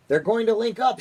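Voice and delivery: high excited shout of a president; the president shouting at the TV, loud and high. A narrator's reading. President shouts at the screen, loud and high. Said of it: "shouted the president".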